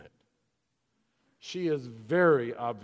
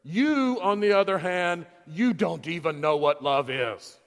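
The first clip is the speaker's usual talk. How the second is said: stern rebuke; 5 dB louder than usual. Retold or imitated. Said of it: "And then he said".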